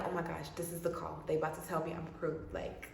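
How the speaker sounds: breathless hope building to a loud burst; excited. Retold or imitated. To herself before the call, rising excitement. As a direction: get giddy as the big call comes. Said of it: "I'm excited".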